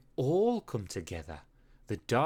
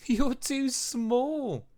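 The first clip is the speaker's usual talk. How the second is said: slow, high mocking wolf voice; laughing; 11 semitones higher, 4 dB louder, slower than usual. A narrator's reading. Wolves laughing at the small pup, slow and mocking. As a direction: tease him with a laugh. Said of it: "laughed the wolves".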